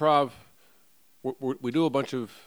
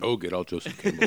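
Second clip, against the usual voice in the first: laughing. Real, not acted. Amused echo of guest's phrase.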